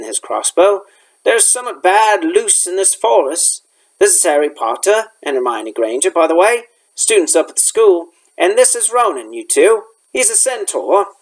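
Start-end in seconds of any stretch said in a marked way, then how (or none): 1.2-11.1 lightly voiced rustic gamekeeper; a touch of country dialect, making introductions; Hagrid.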